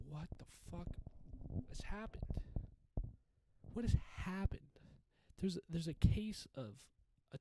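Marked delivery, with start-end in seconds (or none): 0.1-4.6 shocked disbelief. Retold or imitated. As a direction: build from a stunned mutter to an outraged cry. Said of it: "And I go".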